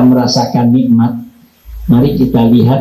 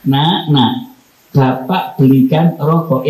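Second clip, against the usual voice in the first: tender call to son; slower than usual. Shown as a demonstration. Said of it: "Sama begini".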